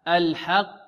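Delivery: الحق with a clear open "Ha", untilted; النطق الصحيح. Shown as a demonstration. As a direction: keep the haa of الحق pure. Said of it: "لا، حاء". (الحاء في الحق بفتحة خالصة دون تقليل)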